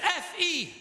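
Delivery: slow, high, letter by letter; spelling aloud. Acted. Woman spelling her name on request, slowly. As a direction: pronounce each letter separately and deliberately. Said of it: "Can you just spell it".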